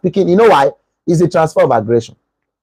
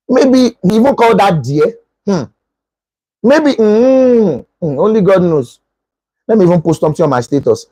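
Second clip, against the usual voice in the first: higher mock-bitter muttering curse; jealous grumbling; 5 semitones higher than usual. Jealous girlfriend posting a dig at her boyfriend, bitter. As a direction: sulk and curse him under your breath. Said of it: "the emotional type".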